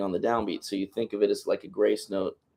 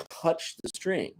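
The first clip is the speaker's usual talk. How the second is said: touch the string, slow and soft, drawn out; gentle slow emphasis; 7 semitones higher, 5 dB quieter, slower than usual. Shown as a demonstration. Teacher contrasting a light touch, slow and soft. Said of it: "You just want to".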